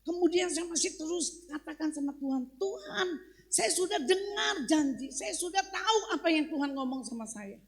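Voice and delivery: fervent retold prayer; impassioned preaching. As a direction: press the plea home like a preacher. Preacher retells insistent prayer.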